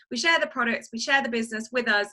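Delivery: "share" leaned on a little harder each time; stress on share. Real, not acted. Presenter stressing "share" to prospective recruits, emphatic. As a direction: press the word "share" so it lands. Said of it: "I just wanna emphasize the word share there".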